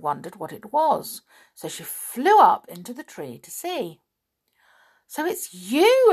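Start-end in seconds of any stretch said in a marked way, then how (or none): 5.1-6.1 higher, louder little fairy voice; pixie. A narrator's reading. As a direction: chirp it like a small sprite. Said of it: "said the pixie".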